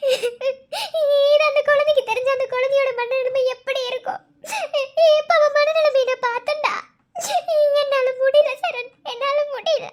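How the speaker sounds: weeping, voice cracking as she gives up; sobbing. Acted. Wife sobbing over the child.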